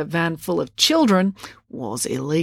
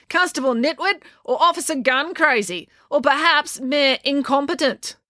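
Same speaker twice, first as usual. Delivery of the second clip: put-on a higher, scornful old woman's voice; scornful old cat lady; 9 semitones higher than usual. A narrator's reading. Cat lady mocks the police and mayor, scornful. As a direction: sneer out the insulting names.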